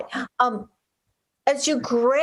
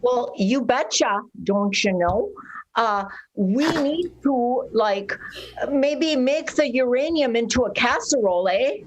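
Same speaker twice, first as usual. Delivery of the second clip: put-on Minnesotan accent. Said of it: "some Minnesotan".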